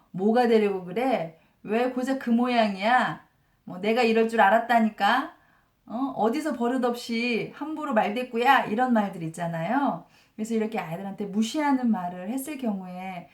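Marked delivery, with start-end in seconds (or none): 0.1-8.6 louder, scornful nagging dad, lightly acted; imitating a parent talking down, raised voice; mock belittling scolding. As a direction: throw dismissive jabs at the child. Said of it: "이렇게 무시하는 말들 있잖아요".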